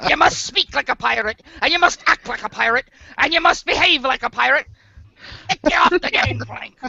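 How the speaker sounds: lightly voiced pirate; pirate captain laying down the rules, lightly voiced. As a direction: play a mild pirate captain giving orders. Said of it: "I can talk like this for four hours".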